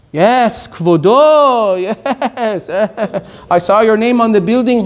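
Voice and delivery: butter up the rich man with a hint of mock awe; fawning flatterer. Mocking a flatterer who greets a rich donor, lightly fawning.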